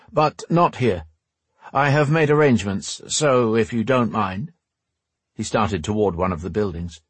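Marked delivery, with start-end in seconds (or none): 0.1-4.5 lightly voiced rogue, higher and courteous. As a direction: usher them along in a slightly put-on rogue voice. Voices Bane in the story.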